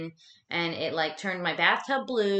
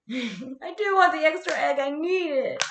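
higher, giggling admission; giggly eager confession about the egg; laughing; 8 semitones higher, 4 dB louder than usual. Real, not acted. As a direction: laugh through the craving. Answering a viewer, playful.

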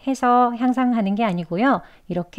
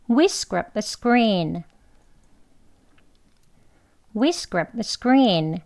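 very slow, careful English sentence; slow demo reading; much slower than usual. Shown as a demonstration. English teacher reading slowly to students. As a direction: read it slowly for the class. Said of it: "두 번 하겠습니다".

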